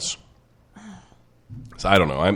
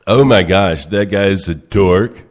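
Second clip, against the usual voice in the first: mock horror; 7 semitones higher, 5 dB louder, much slower than usual. Mock regret as guest.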